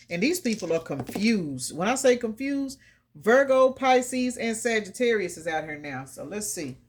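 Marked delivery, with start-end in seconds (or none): none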